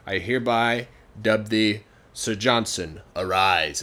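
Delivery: slow mock-royal pronouncement; lightly solemn knighting formula; ceremonial dubbing. King knighting someone named Johnson, mild ceremonial tone.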